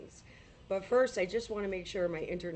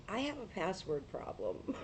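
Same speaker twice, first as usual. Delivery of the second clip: laughing confession; 2 semitones higher, 4 dB quieter than usual. Real, not acted. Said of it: "I freely admit".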